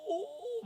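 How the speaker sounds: imitated "oh" cheer, high; laughing crowd whoop.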